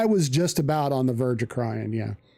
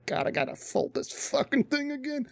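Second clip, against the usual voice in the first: exasperated groan; 11 semitones higher, 7 dB quieter than usual. Retold or imitated. Griping about refolding the bag.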